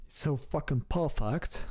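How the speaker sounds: a hint of a British accent on "It's so fucking perfect"; light British accent. Streamer praising the British accent, lightly in a British accent. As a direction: try the British accent half-heartedly, under the breath. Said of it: "Just sounds so goofy".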